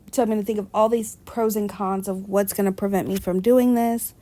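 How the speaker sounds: talking through a yawn; words stretched by a yawn. Real, not acted. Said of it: "I'm sorry I keep yawning".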